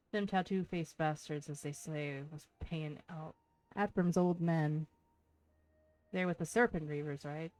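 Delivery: put-on reading a pirate's lines in a rough Irish accent; lightly put-on Irish brogue, gruff and sly; shitty Irish accent. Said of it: "shitty Irish accent".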